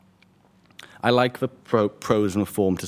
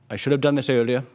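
raised, higher call over the table; shout; 5 semitones higher, 3 dB louder than usual. Acted. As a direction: lift the voice to be heard. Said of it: "Rob will shout".

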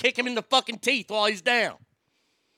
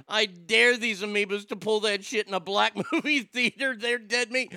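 quoting Ogre; 3 semitones lower, 3 dB quieter than usual. Retold or imitated. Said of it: "Ogre says".

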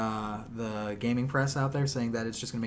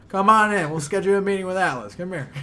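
excited welcome; 7 semitones higher, 9 dB louder than usual. Retold or imitated. Imitating E3 staff welcoming.

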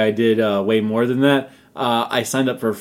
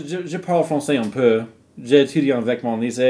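French accent, at the usual pitch. Shown as a demonstration. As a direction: speak French with a put-on accent. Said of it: "Why do you keep saying it like that".

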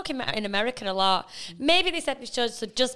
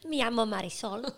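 put-on softly copied Spanish accent; 6 dB quieter than usual. Co-host copying her sister's line, soft Spanish accent. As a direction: echo it in playful mock-Spanish. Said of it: "I love speaking in an accent".

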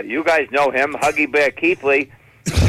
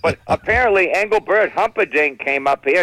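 ordinary talk

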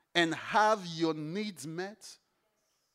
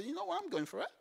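determined; 5 semitones higher than usual. Pretend. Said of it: "see the bump and say".

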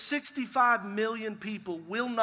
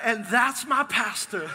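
proud; 2 semitones higher, 6 dB louder, slower than usual. Retold or imitated. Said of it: "He's like".

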